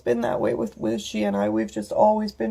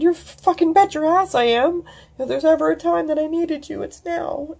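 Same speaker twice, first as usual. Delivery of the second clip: emphatic; 9 semitones higher than usual. Retold or imitated. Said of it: "And I said".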